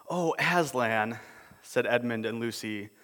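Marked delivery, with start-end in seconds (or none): 0.1-1.2 despairing. Acted. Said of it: "both together in despairing voices".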